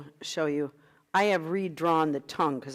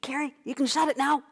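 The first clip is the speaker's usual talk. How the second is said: teasing aside; 8 semitones higher, faster than usual. Retold or imitated. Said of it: "And I wanna say".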